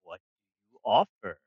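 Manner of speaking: slow, booming dragon. Acted. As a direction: speak as an ancient proud dragon. GM voicing the dragon.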